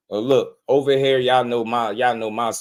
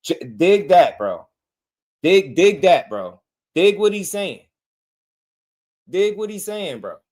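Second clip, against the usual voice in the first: excited; 7 semitones higher, 5 dB louder than usual. Real, not acted. Urging viewers to take it in.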